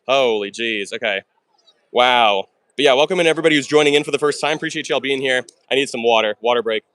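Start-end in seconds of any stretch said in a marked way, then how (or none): 2.8-5.4 fast talking. Real, not acted. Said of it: "I feel like I sound like an auctioneer".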